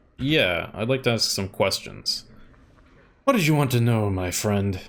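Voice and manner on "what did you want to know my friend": very quiet, gentle voice, lower pitch. A narrator voices the character Liquix answering a traveler: Liquix's quiet gentle voice. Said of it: "he speaks in a gentle voice, so quiet that you can barely hear his words".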